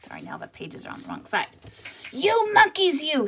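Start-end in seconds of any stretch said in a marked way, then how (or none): 2.1-3.3 higher scolding peddler voice. Acted. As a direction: wag a finger at the monkeys. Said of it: "he said, shaking a finger at them".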